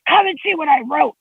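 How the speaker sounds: lightly acting out a cross child; mad child, imitated. Mother quoting her son mad over homework, mildly cross imitation. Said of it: "he got really mad".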